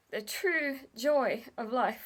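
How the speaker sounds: slow, choking up mid-thought; slow and about to cry, moved by a kindness; voice breaking. Real, not acted. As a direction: let the tears catch the words. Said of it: "fuck, I'm gonna cry".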